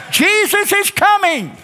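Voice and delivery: high, drawn-out preacher's shout; rallying shout. Shown as a demonstration. Preacher leading a voice lesson, rallying shout. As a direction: shout it out for everyone to echo. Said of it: "Come on, shout it".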